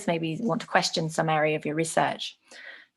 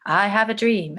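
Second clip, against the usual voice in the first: slow, I have a dream, each word given weight; slow speech-style delivery; slow repeated quote. Shown as a demonstration. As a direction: draw it out slowly, dream falling. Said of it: "which he says quite slowly".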